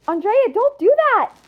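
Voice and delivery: high-pitched acted warning cry; urgent warning. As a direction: cry out to stop a student. Teacher shouting a warning.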